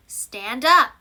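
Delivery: loud barked order; command. Shown as a demonstration. Teacher demonstrating a command to pupils, loud. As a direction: snap it out like a teacher ordering the class. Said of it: "imperative sentences".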